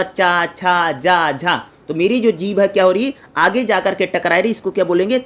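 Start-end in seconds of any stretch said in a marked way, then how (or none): 0.0-1.6 slow, careful चा छा जा झा with tongue on the palate; palatal syllables demo. Shown as a demonstration. Teacher showing palatal sounds to students, slow and careful. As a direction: stretch out चा छा जा झा one by one. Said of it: "जैसे मैंने बोला".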